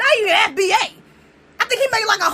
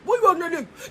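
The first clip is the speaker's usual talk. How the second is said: lightly put-on scolding woman's voice; a hint of a scolding wife; mock nagging woman; 3 semitones lower, 3 dB quieter, much faster than usual. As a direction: play the nagging wife, a bit lower.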